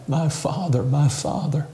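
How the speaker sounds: a mild anguished cry from the cross; lightly voiced plea of abandonment. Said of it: "He heard him cry".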